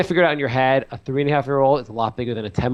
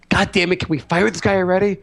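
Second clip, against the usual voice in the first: higher-pitched, fed-up mock complaint; exasperated boss; 6 semitones higher than usual. Boss to colleagues about anxious employee, exasperated demand. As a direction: play a boss out of patience.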